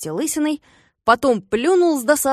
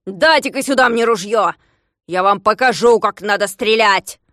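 bossy demand; 6 dB louder than usual. Acted. Grabbing the gun.

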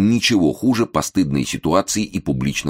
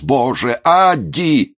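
high, loud bellow; yelling at full throat; 10 semitones higher, 4 dB louder, much slower than usual. A narrator's reading. Momus yells for his wife at the top of his lungs. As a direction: shout her name through the whole house. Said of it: "заорал он во всю глотку".

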